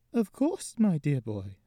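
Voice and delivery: drawn-out grandmotherly question; old lady. Acted. Gigi checks Carson's name, slow old lady voice.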